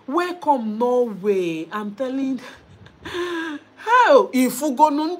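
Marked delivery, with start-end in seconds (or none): 3.0-5.2 laughing. Real, not acted. Excited laughing greeting viewer.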